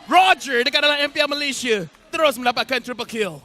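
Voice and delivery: slow, high, booming crowd call; fighting game announcer. Acted. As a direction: announce it to the whole arena. Addressing crowd over triple kill. (gaya juruhebah arena yang lantang)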